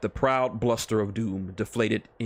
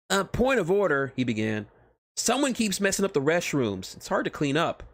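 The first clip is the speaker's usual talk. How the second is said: higher, youthful ninja voice; a touch of the eager young ninja; lightly voiced young ninja complaining; lightly voiced Naruto; 7 semitones higher than usual. Naruto's voice in the story.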